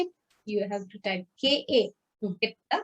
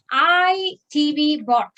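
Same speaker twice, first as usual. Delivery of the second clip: slow, loud and higher, each word set apart; slow word-by-word demo; 4 semitones higher, 5 dB louder, slower than usual. Shown as a demonstration. Teacher showing students Japanese word order, slow word-by-word demo. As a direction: lay out the words one at a time.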